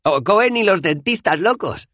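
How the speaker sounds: entre risas, mucho más agudo y fuerte; riendo. A narrator's reading. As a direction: suelta el chiste riéndose. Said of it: "rió Dos Flores". (risa aguda y fuerte)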